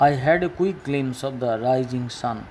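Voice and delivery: careful, stretched reading; slow model sentence. Shown as a demonstration. Teacher reading an example sentence to pupils. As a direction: read the example slowly.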